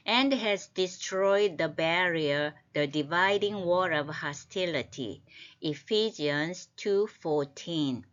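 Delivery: very slow, deliberate reading; reciting by rote. Shown as a demonstration. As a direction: read the verse word by word. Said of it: "reads English verse slowly".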